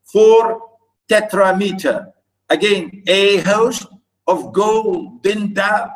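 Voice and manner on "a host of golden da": slow "a HOST, of GOLD, en DA"; deliberate, stretched beats on "A host of golden da"; exaggerated scansion. Shown as a demonstration. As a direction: split "A host of golden da" into two-syllable feet. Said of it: "notice here".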